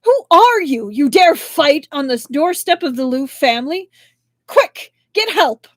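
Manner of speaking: high, loud alarmed yelling; family yelling at intruders in shock and fury; shocked furious shout. A narrator's reading. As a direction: shout at the strangers fighting on the doorstep. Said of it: "They exclaimed in shock and fury".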